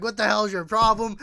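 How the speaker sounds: angry confrontation. Retold or imitated. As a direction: demand it like a riled-up driver. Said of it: "I get really fucking angry".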